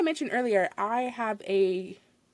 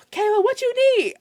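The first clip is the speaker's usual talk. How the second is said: exasperated manager; 13 semitones higher, 7 dB louder than usual. Retold or imitated. Manager arrives after a sigh to ask the cashier what she needs. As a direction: sound put out at being called over.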